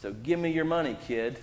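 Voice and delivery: mock bully. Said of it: "I start making fun of you".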